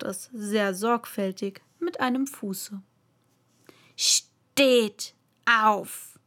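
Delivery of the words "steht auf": loud, piercing royal order; piercing command. A narrator's reading. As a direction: command them in a piercing queen's voice. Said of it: "mit einer durchdringenden Stimme".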